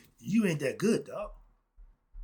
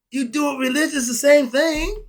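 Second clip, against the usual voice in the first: emphatic; 10 semitones higher, 10 dB louder than usual. Real, not acted. Emphatic end of lesson.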